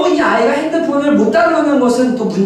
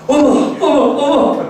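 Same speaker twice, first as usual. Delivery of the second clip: higher-pitched imitated 'oh my'; alarmed wife; 6 semitones higher, slower than usual. Wife in the back seat discovering the charge, alarmed. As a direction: mimic a wife's flustered little cries. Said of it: "뒤에서 아내가".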